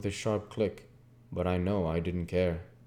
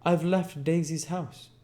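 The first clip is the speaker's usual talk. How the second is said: harsh, dry Jordan; 9 semitones higher than usual. A narrator's reading. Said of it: "it seemed harsh and dry".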